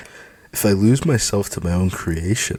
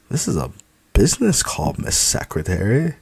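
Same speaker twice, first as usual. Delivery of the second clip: teasing; 6 semitones higher than usual. Acted. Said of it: "I say for her to move aside".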